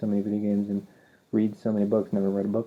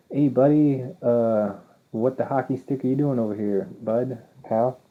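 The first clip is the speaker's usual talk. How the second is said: put-on Canadian accent; 3 semitones higher than usual. Canadian customs guard greets a traveler in a mock Canadian accent. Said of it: "or, you know, Canadians".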